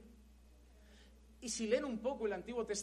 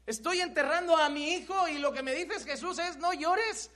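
indignant mother; 5 semitones higher, 4 dB louder than usual. Acted. Grieving mother voiced by preacher.

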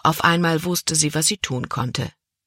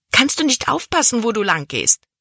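hissing; 6 semitones higher than usual. Acted. Libby, soaked by the boy's bucket, hisses at him. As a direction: spit the question out at the clumsy boy. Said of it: "zischte sie".

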